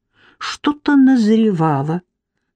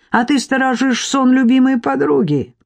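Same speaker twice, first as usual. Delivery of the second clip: higher, aggressive sneer; 6 semitones higher than usual. Acted. Marik taunting his wife, aggressive higher sneer. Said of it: "Тон у Марика был агрессивный".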